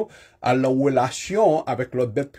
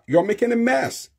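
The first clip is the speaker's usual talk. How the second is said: higher You're making a mess; scolding; 8 semitones higher than usual. Shown as a demonstration. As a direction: scold the kid. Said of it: "ou pafwa kapab di".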